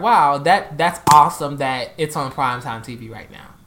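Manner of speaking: retold excitement. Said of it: "I just was like".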